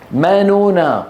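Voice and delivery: ما نونا recited with nasal ghunna; model recitation. Shown as a demonstration. Teacher models ما نونا for the class to repeat. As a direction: say ما نونا clearly for students to repeat. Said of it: "طب قولوا ورائي".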